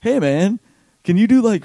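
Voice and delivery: high, breezy booker. Retold or imitated. Event booker making an easy-sounding request, breezy. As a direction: sound casually friendly. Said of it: "Originally, it was".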